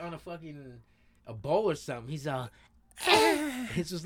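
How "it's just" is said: high, mock turtle cry; high-pitched turtle moan. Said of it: "high pitched".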